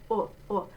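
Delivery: "O, O" short, as the vowel in book; open U sound. Shown as a demonstration. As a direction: say "O, O" like the oo of book, lips puckered. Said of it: "it's a little more open".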